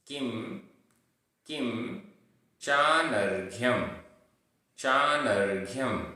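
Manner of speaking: careful recitation with long gaps between words; pronunciation drill. Shown as a demonstration. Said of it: "उच्चारण".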